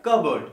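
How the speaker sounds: कह बर्ड joined into one word, "kuh-burd"; correct pronunciation. Shown as a demonstration. Teacher showing connected version, कह बर्ड as one word. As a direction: run कह बर्ड together, no p. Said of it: "directly continue बोलें".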